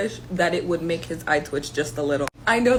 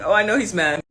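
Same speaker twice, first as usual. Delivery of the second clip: gloating laugh; 4 dB louder than usual. Real, not acted. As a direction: still giggling while gloating.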